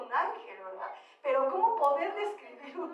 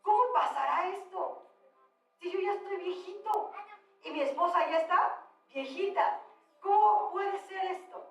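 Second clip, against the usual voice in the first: a hint of an incredulous old man, higher pitched; mild mock disbelief in a raised voice; lightly voiced Zacarías; 4 semitones higher than usual. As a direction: lightly act out a puzzled question, pitched up. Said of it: "Y entonces Zacarías le dice".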